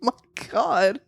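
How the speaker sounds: shaken whisper after a scare; whispering, spooked; breathy whispered fright. Real, not acted. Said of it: "That was spooky".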